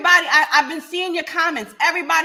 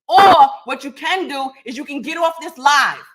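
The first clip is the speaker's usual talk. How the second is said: louder, sharp dismissal; 6 dB louder than usual. Real, not acted. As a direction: order them off. Telling commenter to leave.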